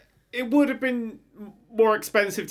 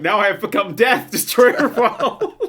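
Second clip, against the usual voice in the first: pull string toy; 3 semitones higher, 4 dB louder than usual. Acted. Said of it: "Just pull the string on the back".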